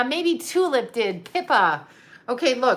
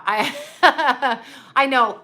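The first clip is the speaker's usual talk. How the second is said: laughing; 3 semitones higher, 4 dB louder, much slower than usual. Real, not acted. Laughing at own joke.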